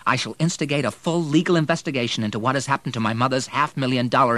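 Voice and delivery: loud, firm menacing ultimatum; cold threat. Acted. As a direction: lay down the threat, hard and cold. William threatens drunk stepfather.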